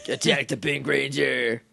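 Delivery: flat hypnotized evil chant; brainwashed monotone. Retold or imitated. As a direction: drone it like a brainwashed henchman. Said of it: "evil hypnotized voices".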